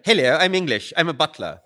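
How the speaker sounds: playful hint of a stuffy English butler accent; caricature British butler. Teasing American listeners with a mock English butler accent. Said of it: "talk more like a caricature British person".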